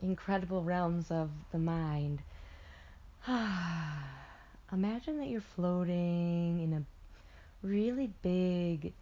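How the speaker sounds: unhurried guided visualization with long pauses; guided meditation. Acted. Meditation guide settling listeners into a warm tub, soothing guided delivery. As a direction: ease them into imagining, drawing out key words.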